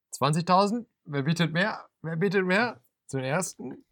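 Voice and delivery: high, loud auction calls rising; auctioneer. Pretend. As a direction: call out bids like an auctioneer. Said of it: "wie bei einer Auktion".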